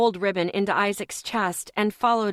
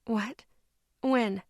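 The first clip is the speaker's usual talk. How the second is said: gently; 3 semitones higher than usual. Acted. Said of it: "I asked gently".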